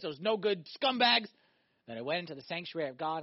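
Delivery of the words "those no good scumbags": mock bitter. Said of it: "He says, I was bitter, I was angry".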